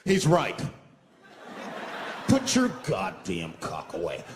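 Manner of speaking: loud, high mocking bus crowd; emboldened passengers. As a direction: ham up the suddenly brave riders. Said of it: "now they're brave".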